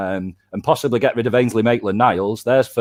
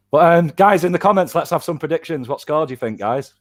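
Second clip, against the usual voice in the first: cheery presenter call-out; hyped call to viewers; 5 semitones higher than usual. Real, not acted. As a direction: whip up the viewers for predictions. Calling out to viewers.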